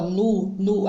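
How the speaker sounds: "nu" said slowly and clearly as a separate syllable; teacher spelling out "nu"; sounding out syllable. Shown as a demonstration. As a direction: isolate the opening sound "nu" for children. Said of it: "vão ver o som inicial".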